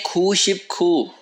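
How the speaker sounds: खू शिप खू drawn out slowly in a changed voice; slow Korean number. Shown as a demonstration. Teacher modelling Korean ninety-nine for students, slow and careful. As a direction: give खू शिप खू slowly, each part separate. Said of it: "निन्यानवे को क्या कहते हैं?".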